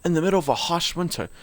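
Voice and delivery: put-on lore read aloud in an amateur British accent.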